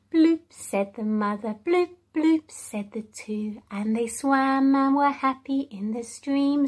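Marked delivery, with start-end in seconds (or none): 0.1-0.4 fish bloop. Shown as a demonstration. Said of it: "sounds of the animals". 1.7-2.5 fish bloop. Shown as a demonstration. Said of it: "sounds of the animals".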